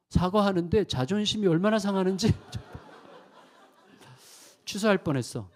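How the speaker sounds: laughing at his own wounded pride; rueful chuckle while confessing. Real, not acted.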